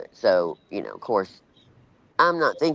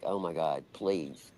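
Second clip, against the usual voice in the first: panicked hush; 9 semitones lower, 11 dB quieter, slower than usual. Retold or imitated. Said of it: "I'm like".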